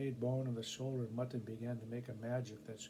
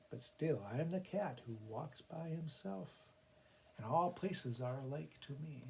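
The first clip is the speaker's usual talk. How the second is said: triumphant cat. Acted. Cat claims its reward.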